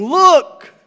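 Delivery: proclaimed high and loud, slowing at the start; loud voice from the throne. A narrator's reading. Reading scripture aloud to the church, a loud heavenly voice. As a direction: announce it like a voice booming from a throne. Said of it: "I heard a loud voice from the throne saying".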